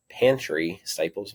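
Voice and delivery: slow Southern drawl on pantry staples; Southern accent. Real, not acted. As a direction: let a Southern accent slip in. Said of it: "my Southern accent flew in there".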